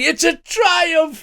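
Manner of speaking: very high, slow, ecstatic cry; ecstatic triumph. Acted. Ghost director to the cast, a high drawn-out triumphant cry. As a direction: crow it to the heavens. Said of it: "he shouts".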